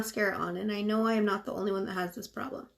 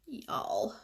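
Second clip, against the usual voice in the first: Southern y'all. Real, not acted. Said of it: "why I just said y'all like that".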